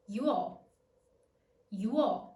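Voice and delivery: "Yuo" in one quick glide, ywo; short teacher demo of "Yuo", Y into W into O; triphthong at normal speed. Shown as a demonstration. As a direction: say "Yuo" as a single syllable. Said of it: "Let's take it slower".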